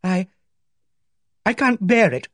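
high, broken-off cry of distress. A narrator's reading. Miss Barton overcome.

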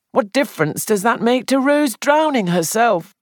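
fretful, guilty young man, voiced high; distressed young man. Sandford's anxious answers.

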